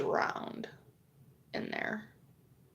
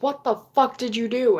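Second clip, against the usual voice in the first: higher-pitched, mildly outraged accusation; retold confrontation, voice raised in pitch; mock angry mother; 4 semitones higher, 4 dB louder, faster than usual. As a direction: imitate an upset mom demanding answers.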